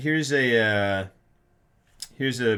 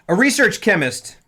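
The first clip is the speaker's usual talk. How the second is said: dramatic trailer voice; 10 semitones higher, 10 dB louder than usual. Acted. Dramatic reading of movie summary.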